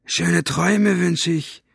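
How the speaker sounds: mocking call, high and slow. A narrator's reading. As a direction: taunt him through the door. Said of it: "rief er von draußen".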